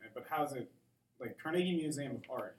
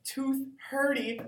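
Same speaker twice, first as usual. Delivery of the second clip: punchline delivery; 12 semitones higher, 6 dB louder, much slower than usual. Pretend. Dad joke punchline.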